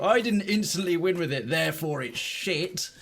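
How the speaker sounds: lightly mocking a quitter; sulky put-on quitter voice; mock whiny player. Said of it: "I'm not about to go".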